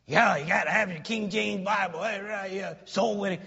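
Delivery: imitating someone making fun of fundamentalists; lightly mocking take-off; mocking imitation. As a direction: rattle it off as a mock quote. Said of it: "mock them and laugh at them".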